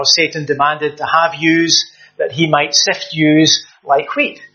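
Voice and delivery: a hint of Glasgow Scots, yous said plainly; lightly voiced Glasgow accent, slowing at the end. Preacher shows how Glasgow would say it, mild Glasgow accent. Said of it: "if from the west of Scotland, from Glasgow".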